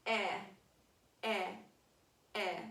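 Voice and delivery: repeated "Eh" as the open short vowel of pet; teacher drilling the short vowel with the class; short e sound. Shown as a demonstration. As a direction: model "Eh" three times, clearly. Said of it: "Can y'all say that with me?".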